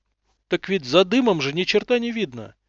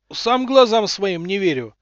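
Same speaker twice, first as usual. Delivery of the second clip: hurried excuse; 4 semitones higher, 5 dB louder than usual. Acted. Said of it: "оправдываясь, зачастил Лебедев".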